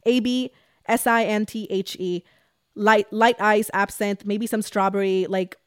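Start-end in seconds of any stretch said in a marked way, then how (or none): 0.0-2.2 spelling it out. Shown as a demonstration. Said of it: "notes, type absinthe".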